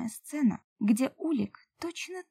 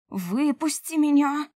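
higher, louder and slower, a real shout; 6 semitones higher, 5 dB louder, slower than usual. A narrator's reading. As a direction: yell it while struggling to get free. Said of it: "выкрикнула я".

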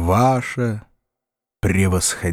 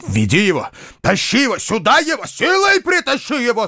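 stamp and roar the orders; furious shout; 13 semitones higher than usual. A narrator's reading. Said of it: "закричал дядюшка, топая ногами". (яростный крик, нарастающий до рёва)

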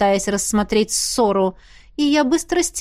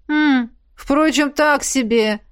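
disappointed sigh; 4 semitones higher, slower than usual. A narrator's reading. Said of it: "разочарованно выдохнул Эрт".

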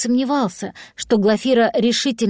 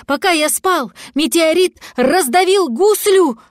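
distraught wail; 7 semitones higher, 3 dB louder than usual. Acted. Cat thinks dragon crushed.

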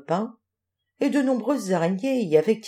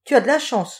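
grumbling; 4 semitones higher, 4 dB louder than usual. Acted. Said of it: "ronchonna Grand-Bec".

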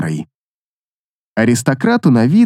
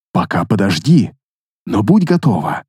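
low, calm male voice; steady low warning; paladin voice; 8 semitones lower than usual. A narrator's reading. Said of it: "отозвался Ансельм".

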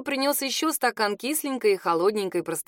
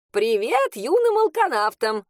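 loud, slow, cheery phone greeting; a jolly old woman yelling a greeting into the phone; cheery holler; 4 semitones higher, 4 dB louder than usual. Acted. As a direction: bellow a hearty hello down the line. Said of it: "бодро проорала она в трубку".

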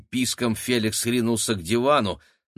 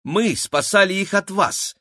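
correcting; 10 semitones higher, 4 dB louder than usual. A narrator's reading. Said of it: "уточнил Максим".

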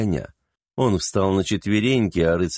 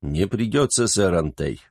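dry. Acted. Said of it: "сухо ответил маршал".

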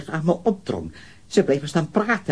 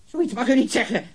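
furious outcry; 5 semitones higher, slower than usual. Acted. Suspect forbids saying the name.

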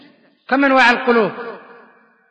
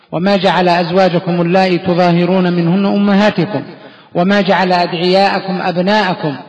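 measured, chanted recitation of the verses; Quran recitation; 4 dB louder than usual. Acted. Teacher reciting the verse to begin the lesson, chanted. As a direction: recite with steady, reverent cadence.

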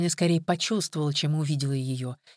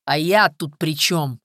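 slow, louder angry question; 6 dB louder, slower than usual. Acted. Viktor answers Kolka's accusation, angrily and slowly. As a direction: snap it back, offended. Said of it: "зло спросил Виктор".

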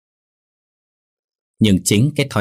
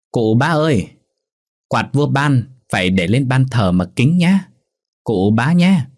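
calling out; 4 semitones higher than usual. Acted. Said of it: "thằng bờm đã gào lên".

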